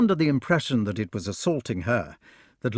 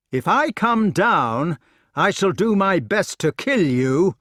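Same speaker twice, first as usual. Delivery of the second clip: high, loud, firm threat; raised-voice warning; 7 semitones higher, 5 dB louder than usual. A narrator's reading. Unarmed knight to his attacker below, warning loudly. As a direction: call the warning down.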